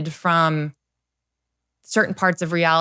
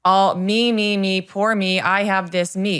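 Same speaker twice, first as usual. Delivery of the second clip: mocking self-pity. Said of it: "You're being really selfish right now".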